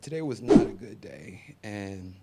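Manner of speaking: hushed confession, no voice; whisper. Real, not acted. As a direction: whisper it like a secret. Confessing bad day, hushed.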